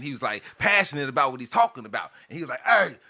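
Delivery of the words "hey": imitating the guy. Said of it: "he's screaming".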